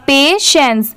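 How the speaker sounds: पेशेंस in two clear parts, "pay-shens"; falling teacher's model of पेशेंस; repeat-after-me model. Shown as a demonstration. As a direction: sound out पेशेंस for learners. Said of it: "मेरे बाद repeat करिए".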